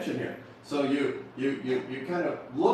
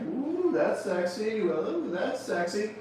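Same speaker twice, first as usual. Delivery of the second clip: admiring ooh; 7 semitones higher, slower than usual. Acted.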